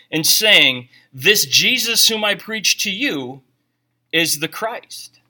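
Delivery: steady, carrying reading of the passage; scripture reading. Acted. Pastor reading Acts to the congregation, carrying and steady. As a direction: read it out like a proclamation. Reads Acts seventeen aloud.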